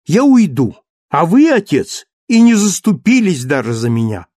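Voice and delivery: high, loud pretend fury; mock indignation. A narrator's reading. Cosette threatening to leave her father and husband, high and loud. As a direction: storm off in a playful sulk.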